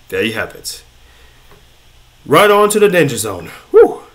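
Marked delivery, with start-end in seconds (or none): 0.1-0.8 quiet echo. Pretend. Quiet echo of own phrase. 3.7-4.0 excited high whoop. Real, not acted. Excited about Danger Zone.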